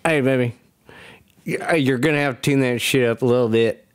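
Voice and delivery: put-on Texas accent. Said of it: "Okay, you ready?".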